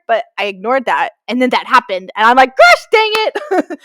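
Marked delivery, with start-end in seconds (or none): 2.6-3.8 high, loud, drawn-out groan of words; exasperated high cry, very slow; mock exasperation. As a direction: scold yourself, slowly and hammed-up. Annoyed at ignoring her instinct.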